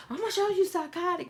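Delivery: high, loud mama threat; imitating her mother's loud comeback; mock mama threat. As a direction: snap back as an outraged mom. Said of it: "my mama would have did like an exorcist head turn".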